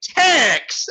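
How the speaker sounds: put-on hippie girl shriek. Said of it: "He's like".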